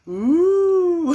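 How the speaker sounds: high, loud squeal of delight. Real, not acted. Tarot reader squealing over the viewer's card, delighted. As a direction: let out a thrilled high squeal.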